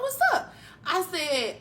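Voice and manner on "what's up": light laugh through it. Retold or imitated. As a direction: laugh out the question. Boyfriend voiced, laughing.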